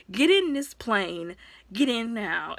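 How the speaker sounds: a lightly voiced stern Batman giving orders; Batman's order. Batman ordering Nightwing into the plane, slow and firm. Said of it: "Batman was like".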